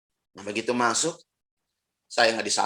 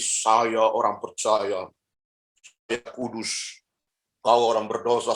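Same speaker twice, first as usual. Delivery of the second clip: slow, lofty self-righteous believer; mock pious; 3 semitones lower, much slower than usual. Preacher mocking a self-righteous Christian, slow and lofty. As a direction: sneer piously from above.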